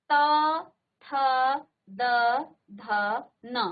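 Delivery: त ठ... no, त थ द ध न said with tongue on teeth; teacher modelling the dental row; dental row demo. Shown as a demonstration. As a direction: model त, थ, द, ध, न clearly, one by one. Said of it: "पांच बार उच्चारण कीजिए".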